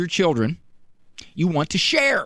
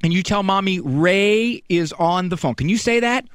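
ordinary talk, nothing marked

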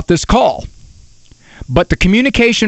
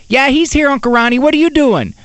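lightly voiced little daughter, pitched up; chatty little girl; 7 semitones higher than usual. Daughter greeting Uncle Ron on the phone, imitated eager little girl. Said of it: "he gets my daughter".

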